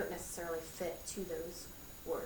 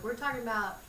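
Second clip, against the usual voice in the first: lightly voiced kid, higher and louder; imitated kid; 4 semitones higher, 7 dB louder than usual. Teacher quoting a pupil on E sounds, lightly voiced kid. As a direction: pipe up like a pupil in class. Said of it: "there's always a kid who will be like".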